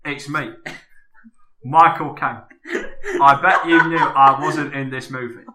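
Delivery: lightly voiced Cockney actor; a touch of London film star; Michael Caine impression. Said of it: "can we just get you to do that one more time".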